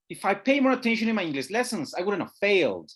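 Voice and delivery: fast contracted delivery with stress on "failed"; model sentence, fast. Shown as a demonstration. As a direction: model it for students to repeat. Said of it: "contracted forms, stress, intonation".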